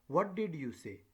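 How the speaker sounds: "What" as the focus, "did you say" as the tail; stress on WHAT. Shown as a demonstration. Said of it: "your stress".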